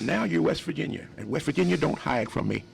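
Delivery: a singer's voice. Retold or imitated. The singer warning the guitarist not to hide, lightly voiced. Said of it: "Quote Ray Charles".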